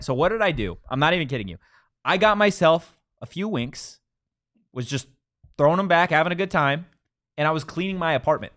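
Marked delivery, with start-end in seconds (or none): 2.0-8.5 high, loud sponsor testimonial; comic ad read. Acted. Host telling listeners how Wink rescued a lonely weekend, animated ad read. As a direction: sell it with an animated, raised voice.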